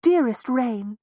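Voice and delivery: high, loud proud mouse mother; a lightly voiced, proud mouse mother. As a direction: address the rain with pride. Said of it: "said Missus Mouse proudly".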